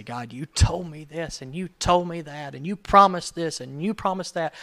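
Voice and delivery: venting hurt and anger at God; pouring guts out to God. Acted. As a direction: spill your frustration at God. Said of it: "pour your guts out to God".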